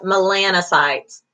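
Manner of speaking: MELANOCYTES said as muh-LAN-uh-sites; careful pronunciation. Shown as a demonstration. Instructor teaching students the board term, "melanocytes" stressed on LAN. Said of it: "you do wanna pronounce that".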